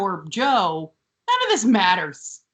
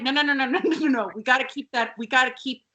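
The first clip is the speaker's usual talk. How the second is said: mock-frantic objection, climbing higher; imitating urgent insistence; 7 semitones higher, faster than usual. Tootie stopping Emily taking her robe off, mock-urgent insistence. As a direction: rattle off protests, pitch rising as you go. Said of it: "And Tootie's like".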